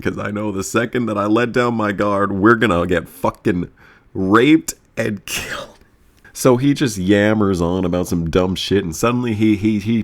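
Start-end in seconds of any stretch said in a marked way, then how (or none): 4.1-5.8 slow dramatic whisper. Retold or imitated. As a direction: drop to a whisper on the dreaded words. Fear of the stranger.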